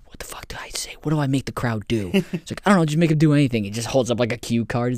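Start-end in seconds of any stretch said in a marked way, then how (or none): 0.0-2.1 unsure crowd-prompter whispering for help; hushed, voiceless mock confusion; panicked stage whisper. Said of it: "some guy in the front row". 2.6-3.6 rapid, higher-pitched improvised instruction; quick, pretend-frantic answer; hurried mock reply. Imagined reply to whispering prompter.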